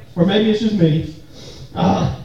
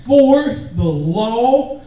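slow call; 5 semitones lower, slower than usual. Shown as a demonstration. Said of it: "Everybody say that with me".

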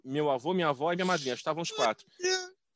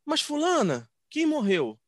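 mother's question; 9 semitones higher, slower than usual. Retold or imitated. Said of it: "minha mãe virou assim".

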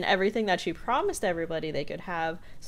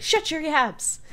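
higher, rough snapped order; gruff Stan; 10 semitones higher, 4 dB louder, slower than usual. Retold or imitated. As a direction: bark it at the host.

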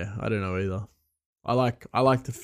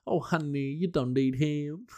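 mock Asian accent; 6 semitones higher than usual. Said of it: "a nail person or someone giving you a massage go".

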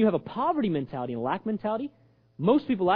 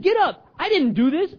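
high, raised-voice protest; sharp rebuke; 10 semitones higher, 4 dB louder than usual. Acted. God denying blame to Joshua, rebuking. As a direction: insist forcefully, pitch up.

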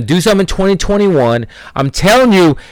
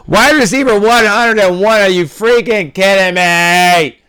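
high, stretched disbelief; host outraged at a sleeper ranking, incredulous; incredulous outburst; 4 semitones higher than usual. Real, not acted.

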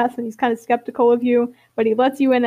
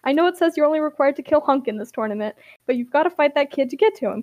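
voicing Hate; 3 semitones higher, faster than usual. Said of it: "Hate cuts him off and is like".

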